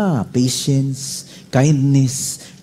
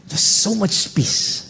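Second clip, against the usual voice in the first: slow, breathless hush of relief; hushed peace; 6 semitones higher, 4 dB quieter, much slower than usual. Real, not acted. Pastor recalling walking out forgiven, hushed wonder. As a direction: let it out like a sigh of peace.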